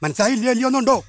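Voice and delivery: lightly voiced holy man; a hint of a Namboothiri priest; mock priestly pronouncement. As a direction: hand down the remedy like a mock oracle. Plays a Namboothiri-style holy man.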